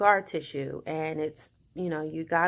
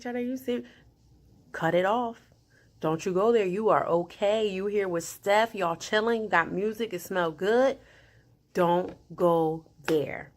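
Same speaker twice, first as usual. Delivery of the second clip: mom voice self-talk. Retold or imitated. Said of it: "I had to use my mom voice".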